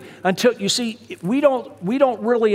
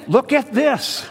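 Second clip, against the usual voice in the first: excited wife; 6 semitones higher, slower than usual. Retold or imitated.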